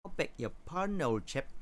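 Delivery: a hint of a Cockney-ish British voice; mock British accent. Second try for chat in a light British accent. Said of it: "talking like a co-, like a, uh, a person with a Cockney accent".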